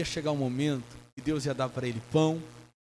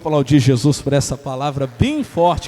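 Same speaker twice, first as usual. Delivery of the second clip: loud call to the congregation; loud, rousing sermon close; pulpit call; 10 dB louder than usual. Real, not acted. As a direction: rouse the church to answer. Calls congregation to respond.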